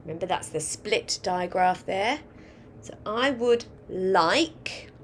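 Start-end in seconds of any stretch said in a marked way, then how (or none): 3.1-4.9 1 slow dictation. Shown as a demonstration. Teacher dictating the sentence aloud.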